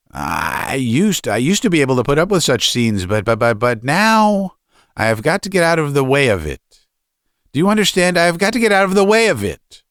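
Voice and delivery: stammering protest climbing high in pitch; stuttering, increasingly desperate son; agitated student son. Acted. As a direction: stand up to father, voice rising as it goes.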